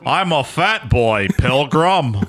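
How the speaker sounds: slow, lightly put-on movie cowboy; John Wayne. Podcast host mocks the young killer, light cowboy-star impression. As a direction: stretch it out like a western star. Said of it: "my John Wayne voice tonight".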